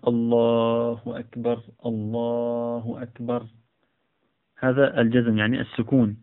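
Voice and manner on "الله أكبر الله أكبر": أكبر with a still R, no vowel after it; silent final r. Shown as a demonstration. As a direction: end أكبر on a plain stopped R with no vowel. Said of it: "ويجزم الراء بمعنى". (أكبر بسكون الراء)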